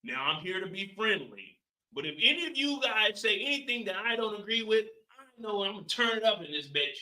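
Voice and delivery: quiet, understated mock threat; mocking Howard. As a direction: murmur it like a calm cop hiding a threat. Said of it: "this nigga in here like this".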